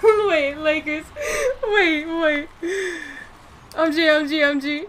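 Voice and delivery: loud, high, urgent blurting; yelping in a sudden flap; excited outburst. Real, not acted. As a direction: burst out frantically, high and loud. Sudden outburst in live play.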